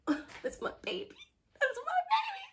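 put-on soft, then a squeaky high "baby"; mock-proud whisper to yourself; a hushed, doting brag; whispered gush. Showing off a well-dressed guy.

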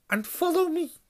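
high, loud, firm order; stern teacher voice. Acted. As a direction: lead the line with authority. McGonagall ordering first years.

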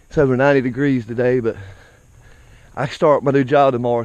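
breathing hard while walking uphill; panting between phrases. Real, not acted. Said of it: "if you hear me heavy breathing".

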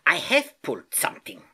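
pained squeak. Acted. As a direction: wince through it as the uncle. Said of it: "he squeaked as he tried".

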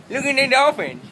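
high, loud silly-voiced exclamation; excited squeal. Vlogger points viewers to the dolphins, excited squeal. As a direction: squeal it with goofy delight.

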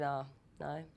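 soft, deadpan monotone; Matt Dillon. Retold or imitated. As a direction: answer coolly, giving nothing away. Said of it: "I was answering in monotones".

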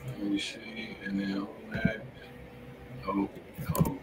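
ordinary delivery

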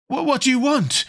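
high, startled stammer; gasped alarm. A narrator's reading. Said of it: "he gasped".

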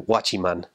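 "watchiman" with an extra ee between watch and man; Peruvian slang pronunciation. Shown as a demonstration. Explaining Peru's borrowed word for guard, "watchiman" with added ee. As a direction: say "watchiman", slipping a little ee into the middle. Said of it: "that little E in the middle of watch and man".

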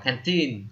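put-on canteen said with the last syllable teen stressed; canteen, hit teen. Shown as a demonstration. Teacher shows learners the stress falling on teen. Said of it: "trọng âm của nó sẽ nhấn vào".

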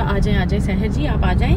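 a hint of the stylist's loving tone; lightly imitated sweet welcome. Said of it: "बहुत प्यार से बोलती है".

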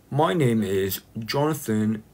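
slow, deliberate British introduction; British accent attempt. Shown as a demonstration. Streamer practising a sentence, slow British accent attempt. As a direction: introduce yourself slowly in put-on British. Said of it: "do any British accent".

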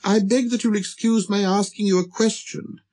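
high, polite small voice; deferential little prince. Acted. Prince begging leave to question the king, high and polite. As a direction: address the king respectfully, high and light. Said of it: "he said to him".

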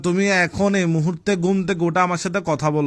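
bellowing. Real, not acted. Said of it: "ষাঁড়ের মতো চিল্লাইতেছো".

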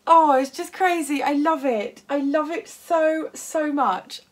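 overexcited. Real, not acted. Raving about the gifted cat fabric, overexcited. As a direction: gush with real delight. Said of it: "I'm getting so overexcited".

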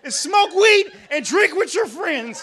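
high, slow, loud mock nagging woman; nagging girlfriend. Comic imitating the neighbor woman berating her boyfriend, slow high nag. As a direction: whine it out like a fed-up girlfriend. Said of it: "she said".

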